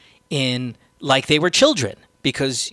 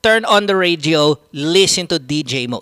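imitating a spoiled child ordering the driver; loud, higher, mock-bossy kid giving orders; bossy rich kid; 4 semitones higher, 6 dB louder than usual. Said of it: "that fucking kid".

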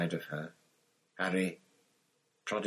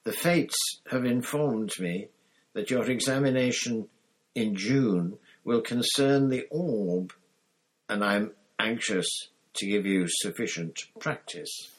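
Professor Trelawney, mystic; 3 semitones higher than usual. Acted. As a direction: announce it like a solemn prophecy.

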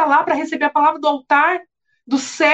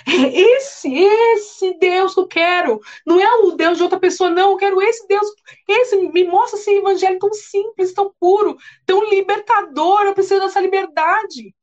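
longing voice; 7 semitones higher than usual. Acted. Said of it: "falem assim".

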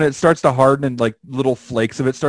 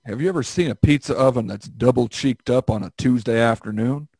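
switching impression voices; 3 semitones lower than usual. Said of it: "doing an impression of that guy".

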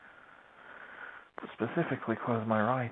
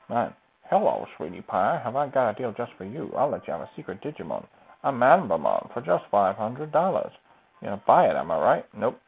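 salesman voice; 6 dB louder than usual. Pretend. Playing a pushy salesman.

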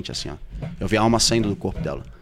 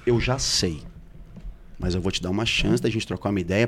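softened, lower retold confrontation; serene, controlled; 3 semitones lower, 6 dB quieter than usual. Man offering his partner a chance to confess, calmly restrained. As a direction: act out measured self-restraint. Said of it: "mais sereno eu fico".

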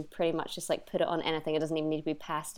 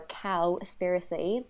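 Cowspiracy in a light English accent; 4 dB quieter, slower than usual. Shown as a demonstration. The English accent take on Cowspiracy, mild. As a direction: switch Cowspiracy into a posh-leaning English accent. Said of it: "if you wanna say it in an English accent".

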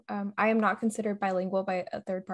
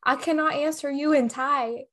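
louder, higher frustrated rant; exasperated outburst; 5 semitones higher, 4 dB louder than usual. Retold or imitated. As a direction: blurt it out in exasperation. Retold outburst at Thai officials.

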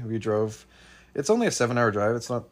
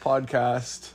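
ringmaster; 4 semitones higher than usual. Acted. Hosts announce the show together.

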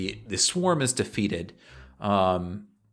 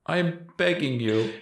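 higher, desperate pleading; high begging voice; 6 semitones higher than usual. Acted. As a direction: beg with rising panic. Collar begging again.

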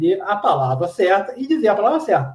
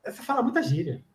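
much softer, fading self-reproach; self-scolding thought; 8 dB quieter than usual. Retold or imitated. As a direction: tell yourself off under your breath. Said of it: "depois eu fiquei pensando". (pensamento autocrítico, bem baixinho)

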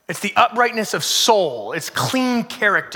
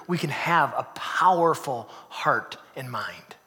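whispered promise; 6 semitones lower, 6 dB quieter, slower than usual. Acted. Whispered sermon line.

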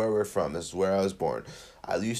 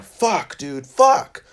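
frustrated cursing; 7 semitones higher, 8 dB louder, much slower than usual. Retold or imitated. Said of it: "I was like".

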